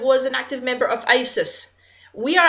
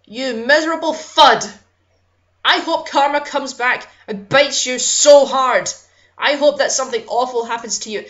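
louder, emphatic angry curse; real anger; 4 dB louder than usual. Real, not acted. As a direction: spit it at the killer in real anger. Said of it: "I'm so sorry I'm getting so angry".

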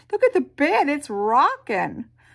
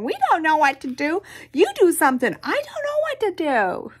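helpless panic; 6 semitones higher, 3 dB louder, faster than usual. Acted. Family panics, all saying.

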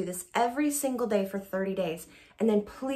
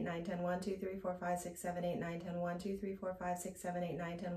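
counting to ten, fading softer to the end of the breath; counting on one exhale; 4 dB quieter than usual. Shown as a demonstration. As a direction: let the count die away as the air runs out. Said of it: "now we're going to add voice".

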